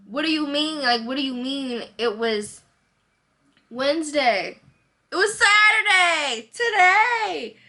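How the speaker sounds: high, loud, exasperated protest; irritated. Retold or imitated. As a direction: push back hard, fed up. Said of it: "I'm getting irritated".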